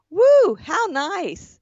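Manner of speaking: a lightly put-on gushing stranger; scammer character voice. Retelling the text chat to her cohost, lightly put-on gushing voice. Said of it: "doing character voices".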